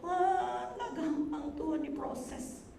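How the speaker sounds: plaintive, sung-out prayer; tearful prayer. Retold or imitated. Pastor retelling her prayer to God, tearful and sung out. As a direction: mourn it to God, slowly. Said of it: "saya nangis sama Tuhan".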